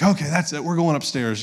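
mildly exasperated retold scolding; fed-up parent. Dad ending bath time as punishment, fed up. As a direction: lay down the law, lightly acted. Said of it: "it's, like, punishment time".

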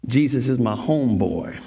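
half-hearted street-cool voice; cool-guy impression. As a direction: try to sound hip and fail. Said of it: "I looked really very vanilla doing that".

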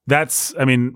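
normal talking voice

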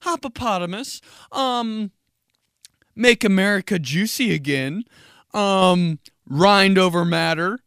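halting list with drawn-out ums; embarrassed server reciting. Acted. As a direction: recite absurd beer names one by one. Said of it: "the beer names are so fucked up".

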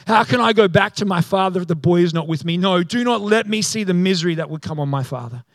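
reading a plea with urgency; earnest plea. Acted. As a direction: plead earnestly on someone's behalf. Judah's plea read out, acted.

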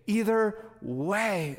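slow, lazy "Either way"; drawn-out catchphrase. Retold or imitated. Pastor imitating his friend's noncommittal slow reply. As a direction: stretch it out like a shrug. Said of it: "He will say that to anything".

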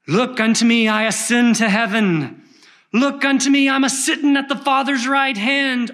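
impassioned preacher's chant, building to a sustained high cry; old shoemaker preaching. Acted. Shoemaker preaching his text to a handful of people, chant rising to high cry.

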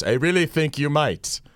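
slow, drawn-out imitation of a momentous voice; Tom Baker. Fan recalling the museum scene, slow imitated voice. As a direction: imitate a famous voice, slowly and deliberately. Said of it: "then you hear that voice".

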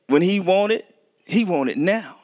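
voicing a toddler who won't wait; imitating demanding son. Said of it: "My son Zion".

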